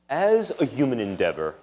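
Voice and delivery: "as" stressed, then a falling line. Shown as a demonstration. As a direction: lean hard on "as" to set it against "for". Contrasting as versus for.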